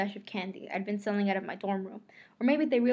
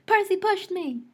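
high, loud indignant cry; raised, high-pitched scream in narration; screamed accusation; 10 semitones higher, 5 dB louder, slower than usual. A narrator's reading.

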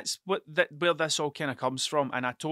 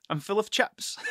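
laughing; 4 semitones higher than usual. Real, not acted. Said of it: "laughing repeat".

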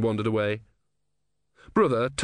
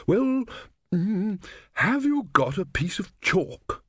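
put-on old man voice; 9 semitones higher, slower than usual. A narrator's reading. Legibus asking for chalk.

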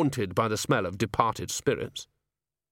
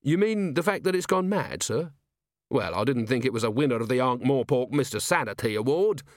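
put-on earnest young guard; 5 semitones higher than usual. Carrot voiced in reading.

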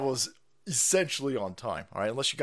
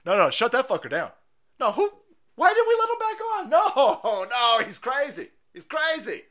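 high, fast, laughing panic; mock-panic shutting the stream down; panicked boss; 11 semitones higher, 6 dB louder than usual. Sponsor boss panics about the stream, laughing. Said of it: "The Rebel C E O sitting there going".

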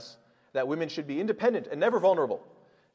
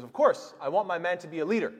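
higher, louder mock pride; mother proudly answering, higher and louder; 4 semitones higher, 5 dB louder than usual. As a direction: say it with pride, not embarrassment. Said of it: "She goes".

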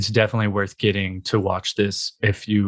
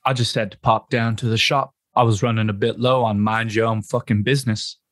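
Butcher impression. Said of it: "quotes from Billy the Butcher".

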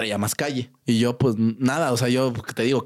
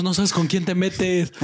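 mock tough talk; 5 semitones higher, slower than usual. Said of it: "hablándole a la pared".

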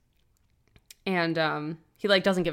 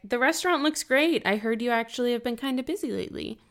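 higher, falsely pleasant small talk; mock-polite dig in a raised voice; passive aggressive; 5 semitones higher, faster than usual. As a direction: imitate a sweetly barbed compliment. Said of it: "passive aggressive. She's like".

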